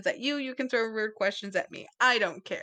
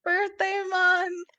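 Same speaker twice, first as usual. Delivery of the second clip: excited sing-song; 10 semitones higher, 4 dB louder, slower than usual. Real, not acted. Excited echo of birthday.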